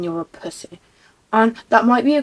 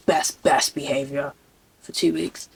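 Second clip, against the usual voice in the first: mock prim voice; 7 semitones lower than usual. Mock goody voice.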